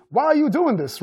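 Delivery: high-pitched plea at normal volume; mild acted shout. A narrator's reading. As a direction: cry out in protest without real volume. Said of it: "Theodore shouted".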